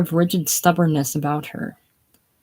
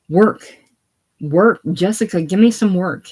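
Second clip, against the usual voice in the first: loud, rising calls across a noisy workshop; bellowing; 2 semitones higher, 5 dB louder than usual. Acted. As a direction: bellow for work over the machines. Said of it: "bellows out".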